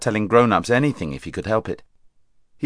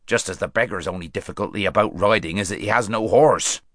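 dry; 2 semitones lower than usual. Acted. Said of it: "said a dwarf dryly".

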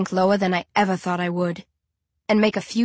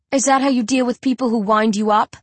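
jeering; 4 semitones higher, 3 dB louder than usual. Acted. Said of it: "I jeer".

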